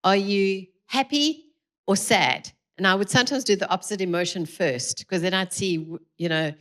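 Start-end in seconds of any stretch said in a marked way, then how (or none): 0.0-2.5 put-on coaxing a child to name his feeling, gently; gentle question to son. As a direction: ask gently, giving him the choice. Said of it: "I would say to him".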